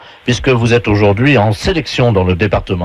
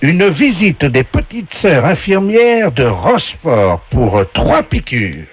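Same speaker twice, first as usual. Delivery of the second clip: slow, higher game voice; game show announcer; 3 semitones higher, slower than usual. Acted. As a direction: announce each prize with drawn-out flourish. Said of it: "la voix du jeu".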